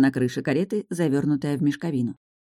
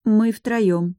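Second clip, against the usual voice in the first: embarrassed; 6 semitones higher, 4 dB louder than usual. Acted. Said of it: "смущённо сказала я".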